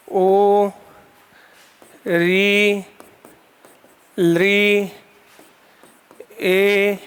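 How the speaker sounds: each vowel आ, ई, ओ held long, one by one with pauses; prolonged vowels. Shown as a demonstration. Teacher demonstrates pluta vowels for the class, drawn out. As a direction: stretch every vowel out like a pluta. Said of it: "थोड़ा और खींच के करना है".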